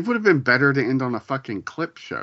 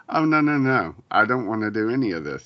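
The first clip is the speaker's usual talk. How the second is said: mock recoil; 3 semitones higher, faster than usual. Podcaster on leaving social media, playfully recoiling. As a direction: act out backing away in dismay.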